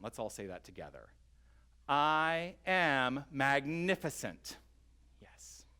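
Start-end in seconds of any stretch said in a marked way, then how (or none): 1.9-4.6 "I am magnificent" drawn out slowly and proclaimed a bit louder; exclaimed declaration. Shown as a demonstration. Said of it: "exclaim for yourself". 5.2-5.7 a breathy whispered yes; soft whisper of approval. Real, not acted. Affirming after group exclamation.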